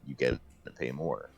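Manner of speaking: normal talking voice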